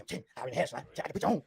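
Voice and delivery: lightly imitated friend; a hint of his friend's way of talking; Roscoe. Retelling the driver's offer in the car, lightly imitated. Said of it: "Roscoe talk like this".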